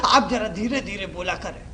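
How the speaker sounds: mild request. Retold or imitated. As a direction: quietly imitate a listener asking politely. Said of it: "आकर के कहा".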